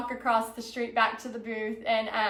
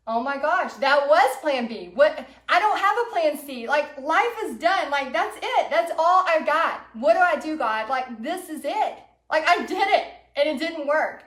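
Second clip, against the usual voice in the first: retold despair; 3 semitones higher, 4 dB louder than usual. Vendor at the bar out of plans, retold despair. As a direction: retell the panic with rising exasperation. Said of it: "I am drinking my sorrows away".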